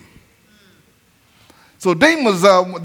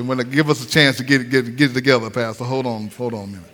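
much lower, much softer pleading voice; imitating congregation; 7 semitones lower, 5 dB quieter than usual. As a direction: mumble a nervous plea.

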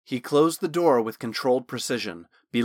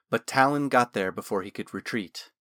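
usual speaking voice

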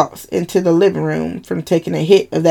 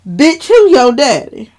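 high, loud sassy jab; sassy challenge; 8 semitones higher, 5 dB louder than usual. Acted. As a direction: snap it at her like a sister. Sister confronting in story.

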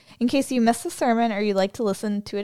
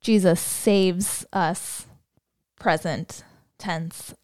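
slow contrast; 2 semitones lower, much slower than usual. Shown as a demonstration. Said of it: "as opposed to saying".

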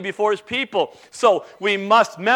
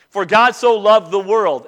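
loud, slower "so loved the world"; emphatic verse reading; 2 semitones higher, 6 dB louder than usual. Shown as a demonstration. Preacher unpacking the verse, stress on "so loved the world". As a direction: press on each key word of "so loved the world". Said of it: "emphasize the words in the text".

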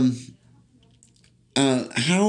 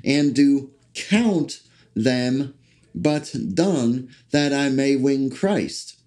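slow, measured reading of the verse; slow scripture reading. Acted. Preacher reading Philippians to listeners, slow and solemn. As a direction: read it like a solemn lesson.

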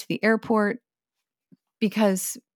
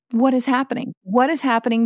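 higher, louder, frantic repeat; panicked thinking; 5 semitones higher, 6 dB louder than usual. Retold or imitated. Wife panicking at a sunny window, higher and louder. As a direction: relive the panic of the alarm. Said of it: "starting to freak out and panic".

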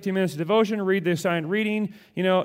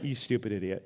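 mock insult; 7 semitones lower, 9 dB quieter than usual. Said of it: "it's more like".

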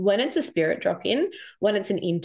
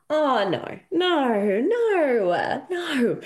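rising protest; 6 semitones higher, much slower than usual. Retold or imitated. Protesting intuitive message.

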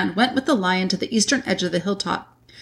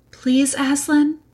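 high, slow, lightly acted plea; pleading girl; 7 semitones higher, slower than usual. A narrator's reading. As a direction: beg gently as a little girl. Young Lucy pleading with lion.

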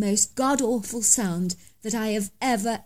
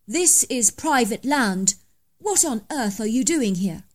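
stern challenge. Acted. Confronting trespasser.

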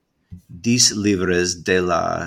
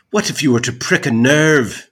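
indignant rhetorical question; 7 semitones higher, 7 dB louder than usual. Acted. Rhetorical jab in letter.

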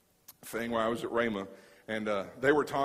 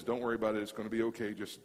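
reassuring; 5 semitones lower, 5 dB quieter than usual. Retold or imitated. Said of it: "God just says".

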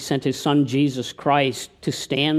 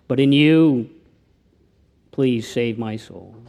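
prayer; 2 semitones lower than usual. Acted. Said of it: "Maybe you can pray with me".

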